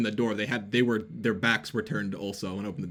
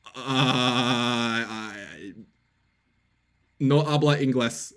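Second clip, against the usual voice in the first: fake Spanish; much slower than usual. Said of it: "and I go".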